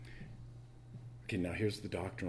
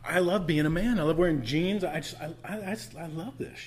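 mock macho boast; 8 semitones higher, 6 dB louder than usual.

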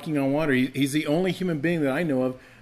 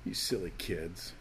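mocking; 4 semitones lower, 10 dB quieter than usual. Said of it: "He doesn't laugh at them".

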